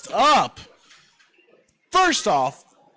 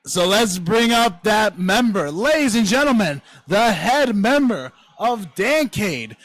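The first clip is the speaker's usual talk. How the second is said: booming pumped announcer; 2 semitones higher than usual. Acted. Host introduces next player.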